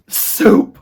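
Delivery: high, loud rat call. A narrator's reading. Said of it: "called out another rat".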